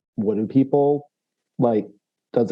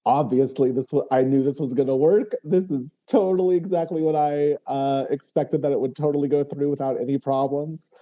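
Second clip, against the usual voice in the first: raised-pitch show of having expected it all along; lightly hammed-up self-assurance; feigned confidence; 4 semitones higher than usual. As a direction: bluff as if it was all planned. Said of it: "strides next to it as if".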